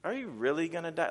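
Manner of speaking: lightly acted sly questioning; a touch of innocent-sounding insinuation; sneaky. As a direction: plant doubt quietly, as a tempter would. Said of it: "it's just sneaky".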